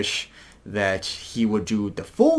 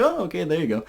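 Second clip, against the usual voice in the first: imitating a rock singer; 8 semitones higher, faster than usual. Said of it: "He's like".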